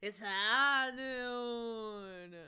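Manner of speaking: very slow mock cowboy drawl; slow drawn western line. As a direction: drag it out like a gunslinger. Imitating the voice line.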